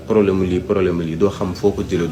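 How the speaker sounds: ordinary talk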